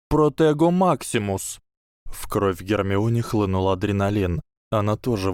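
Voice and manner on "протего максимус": spell shout. A narrator's reading. Casting a shield spell.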